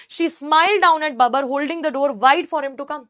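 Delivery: measured reading from the textbook; story read-aloud. A narrator's reading. Teacher reading the story to students, deliberate narration. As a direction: read it out clearly for a class.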